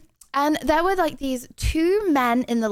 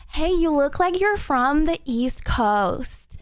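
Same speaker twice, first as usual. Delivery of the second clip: put-on lighter American accent, a bit less drawn out; retry the American accent with less drag; 3 semitones higher, slower than usual. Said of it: "the accents got worse because I started talking slowly".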